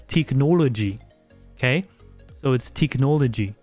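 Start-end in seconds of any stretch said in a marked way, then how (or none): 0.0-1.0 teknologi said the Norwegian way; Norwegian pronunciation. Shown as a demonstration. Streamer showing how Norwegians say technology, Norwegian pronunciation of teknologi. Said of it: "In Norwegian, you say technology as". 2.7-3.5 technology in an attempted Norwegian accent. Shown as a demonstration. Streamer showing how you say it in Norwegian, attempted Norwegian accent. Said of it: "I might be putting a weird accent on".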